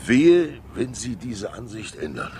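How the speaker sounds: a sudden loud, high "wehe"; stern warning. Acted. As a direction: bark the warning out sharply. Threatening warning to journalist.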